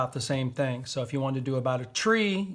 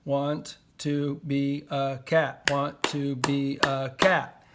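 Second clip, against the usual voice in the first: slow dictation; slower than usual. Shown as a demonstration. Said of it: "five seven five".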